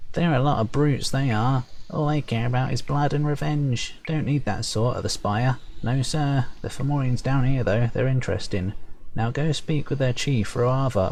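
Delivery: high, gossipy sprite voice; perky high sprite. Acted. Sprite badmouthing the Upper Fomorians, perky and high. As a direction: chirp it brightly, high up. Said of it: "perky, high-pitched voice".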